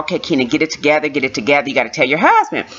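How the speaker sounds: quick, low self-coaching; reenacted pull-yourself-together murmur; self pep talk. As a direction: talk yourself into composure, hurried. Pep talk to herself while crying.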